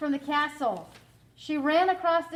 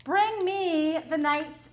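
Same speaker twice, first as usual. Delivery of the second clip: loud, slow, higher demand; cried command; 5 semitones higher, 6 dB louder, slower than usual. A narrator's reading. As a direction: call for it like a greedy giant. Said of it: "he cried".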